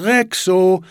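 high, drawn call for a lost pet. A narrator's reading. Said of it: "ruft Niklas". (suchend rufen)

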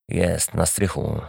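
hushed and slow; quiet. Acted. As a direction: say it softly, listening. Cat listening, told to be quiet. (cicho i powoli)

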